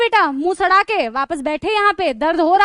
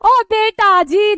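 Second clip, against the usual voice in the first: excited exclamation; 4 semitones higher, 6 dB louder, much slower than usual. Real, not acted. Punchline reaction to name.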